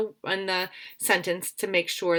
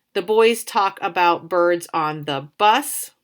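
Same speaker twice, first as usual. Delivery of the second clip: slow trial reading; 5 dB louder than usual. Shown as a demonstration. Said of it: "So here's my words".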